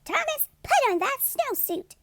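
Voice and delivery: a teacher at the end of her rope; exasperated teacher. A narrator's reading. Teacher ordering Thomas into his snowsuit, exasperated. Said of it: "The teacher jumped up and down and said".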